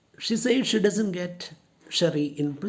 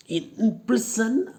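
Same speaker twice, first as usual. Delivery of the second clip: high, pinched sneer on "prison"; distasteful; 7 semitones higher, 3 dB louder than usual. Shown as a demonstration. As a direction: say "prison" as if it tastes bad. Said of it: "She says his last word distastefully".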